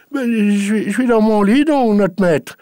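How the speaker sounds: high, loud reply up the stairs; called-back answer. Acted. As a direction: answer him from far off, nervously.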